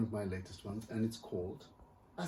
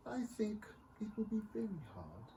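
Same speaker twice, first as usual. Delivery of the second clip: whisper; 10 semitones higher, 6 dB quieter than usual. Acted. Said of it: "whispered Astrid".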